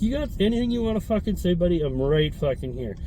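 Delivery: put-on facing the old man across the manager, daring him; retold challenge. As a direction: square up and dare him.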